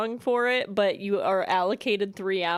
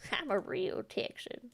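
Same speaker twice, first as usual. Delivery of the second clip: whisper; 2 semitones higher, 7 dB quieter than usual. Pretend. Repeats Texan claim, whispered.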